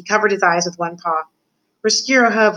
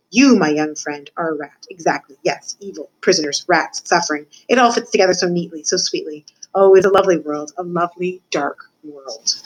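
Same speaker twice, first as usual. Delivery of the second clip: savouring rat mentor. Acted. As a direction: linger fondly on each dark word.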